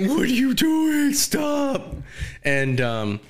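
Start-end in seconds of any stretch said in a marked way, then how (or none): 0.1-1.9 high-pitched mock alarm; imitating an appalled onlooker, pitched way up; mock scolding. Acting out onlookers scolding the drunk girl.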